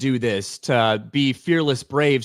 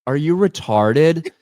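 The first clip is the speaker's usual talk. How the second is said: slow, louder jab in a mock-innocent tone; blunt mock question; 3 semitones higher, 4 dB louder than usual. Snow White bluntly asking the silent Dopey, in a slow mock jab. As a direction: drag it out like a tactless princess. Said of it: "Like that".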